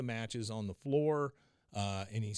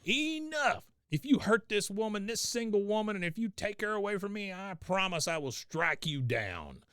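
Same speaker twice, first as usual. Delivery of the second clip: Bill's outburst; 8 semitones higher than usual. Retold or imitated. Bill shutting down the room at Cotton, high and furious. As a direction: explode at Cotton. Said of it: "He's like".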